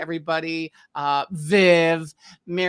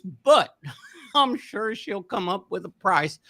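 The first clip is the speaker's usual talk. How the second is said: Mr. Haney voice; 5 semitones higher than usual. Retold or imitated. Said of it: "Green Acres".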